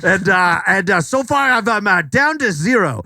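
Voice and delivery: lightly put-on Australian accent; hammed-up Aussie TikToker. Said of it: "I'm Sean Connery's cousin".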